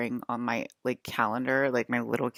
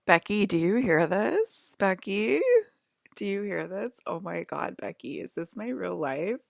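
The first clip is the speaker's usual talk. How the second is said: stretched-out, mildly wondering imitation; brand new voice; 3 semitones higher than usual. They woke up and call to Becky, mock amazement. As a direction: lightly imitate someone amazed by their new voice. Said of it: "They woke up with a brand new voice".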